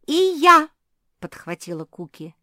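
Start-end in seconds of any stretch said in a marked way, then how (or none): 0.1-0.7 high loud cry; shout. Acted. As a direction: yell it out. Kuki joins the shouting.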